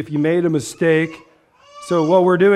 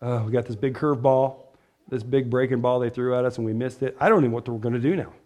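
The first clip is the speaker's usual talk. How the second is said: mock panic; 4 semitones lower than usual. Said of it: "God isn't thrown back like".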